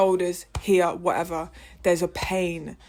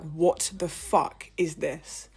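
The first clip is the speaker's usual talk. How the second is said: retold outburst; 3 semitones lower, 6 dB quieter, much slower than usual. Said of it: "I literally said out loud".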